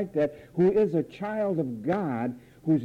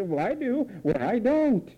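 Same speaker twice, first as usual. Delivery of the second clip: mock bickering minds; 4 semitones higher than usual. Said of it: "and then you say".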